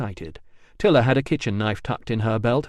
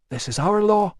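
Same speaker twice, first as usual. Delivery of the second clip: insisting; 9 semitones higher than usual. A narrator's reading. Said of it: "insisted Tiller".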